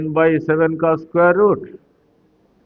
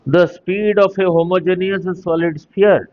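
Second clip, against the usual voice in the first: slowly read-out exam question; slow dictation; much slower than usual. Real, not acted. Teacher starting the next exam question for students, slow dictation. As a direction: dictate at an unhurried pace. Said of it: "धीरे धीरे बोल रहा हूँ".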